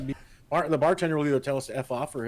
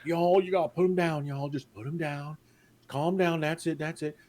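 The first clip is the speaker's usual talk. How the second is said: put-on drunken Texan. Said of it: "drunken Texan mode".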